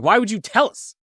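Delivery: can't believe he'd share this; incredulous retort. Retold or imitated. Friend asking Josh why he told them, incredulous. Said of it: "I'm like".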